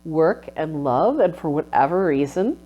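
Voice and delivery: soft, fading, close to tears; quiet sorrow. Retold or imitated. Grieving the unfinished masterpiece, softly sorrowful. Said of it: "I was like".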